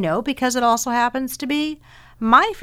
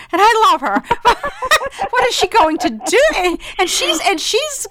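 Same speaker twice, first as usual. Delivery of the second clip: laughing; 12 semitones higher, 5 dB louder than usual. Real, not acted. Laughing fondly about her sister.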